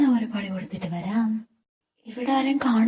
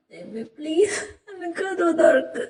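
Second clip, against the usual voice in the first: tearful plea; 3 semitones higher than usual. Acted. Locked in, crying plea.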